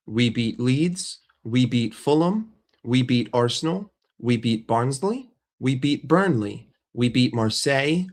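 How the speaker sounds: each win laid down slowly, hitting "beat"; a measured roll call of wins, stressing "beat" every time; slow deliberate list. Shown as a demonstration. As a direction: tick them off one by one, unhurried and pointed. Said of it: "I will respond simply like this".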